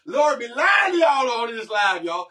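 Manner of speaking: high, loud, drawn-out accusation; playful outraged protest. Real, not acted. Husband telling the live audience his wife lies, playful outrage.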